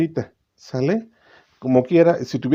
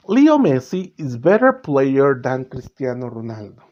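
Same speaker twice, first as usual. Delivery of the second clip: slow example read; 3 dB louder, slower than usual. Shown as a demonstration. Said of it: "teacher reads example slowly".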